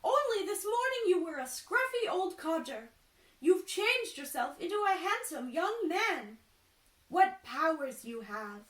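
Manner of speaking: high, loud amazed woman; awestruck merchant's wife. Acted. Merchant's wife marvelling at the change, high loud awe. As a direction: gush with awe.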